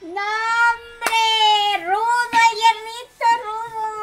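playful outraged cry; excited protest. Real, not acted. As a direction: protest loudly, half joking. Teasing outburst at a comment.

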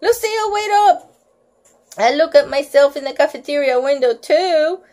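high, quick call after her; mock call across the playground. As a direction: shout after the girl to wait. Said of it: "He began to shout".

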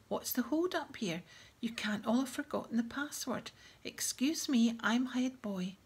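put-on a bossy head boy clearing the crowd; pompous head boy. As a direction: puff up and announce your rank. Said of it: "bustling importantly through the crowd".

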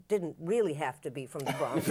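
laughing through the words. Real, not acted. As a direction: chuckle as you say it. Laughs at own hope.

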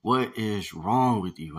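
near disgust. Acted. Hakeem to his friend over the body, slow near disgust. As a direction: ask it slowly, half repelled. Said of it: "with near disgust".

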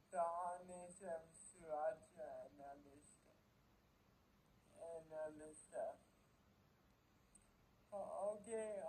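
words around a bitten stick; talking with food at lips. Real, not acted. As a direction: mouth partly blocked by snack. Seen 1: Yellow snack stick held at lips and teeth throughout speech.

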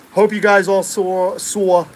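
slow, drawn-out New York accent. Shown as a demonstration. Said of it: "there's my New York accent".

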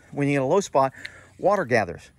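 breathless from dragging mats; out of breath. Real, not acted. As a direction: talk while catching your breath. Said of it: "I'm out of breath".

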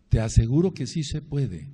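the same promise, now firm and full-voiced; emphatic promise. Real, not acted. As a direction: proclaim it with conviction. Preacher repeats a promise.

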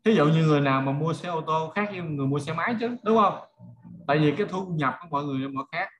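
usual speaking voice

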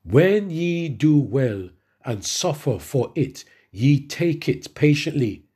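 slow, deliberate Bible reading; measured reading of the verse; scripture reading. Acted. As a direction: read each phrase slowly and weightily. Reads scripture slowly.

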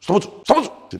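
mock shout. Retorting to tax officer.

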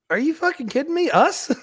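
retold disbelief. Learning of his own release.

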